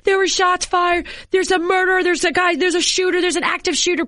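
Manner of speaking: retold panicked cries, high-pitched and urgent; mock-frantic eyewitness voices tumbling one after another; panicked bystanders. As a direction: imitate frantic people reporting danger, pitch held high. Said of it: "People were just emotional cry".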